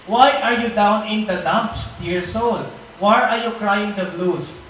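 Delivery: slow, earnest reading of a verse; reading the Bible verse slowly to the congregation; scripture reading. Acted. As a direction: read it slowly, as comfort to the listener. Reads Message translation verse.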